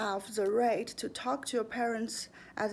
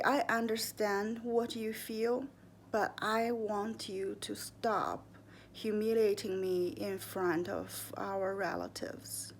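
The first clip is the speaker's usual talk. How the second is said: calm. Shown as a demonstration. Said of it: "Repeat that very calmly".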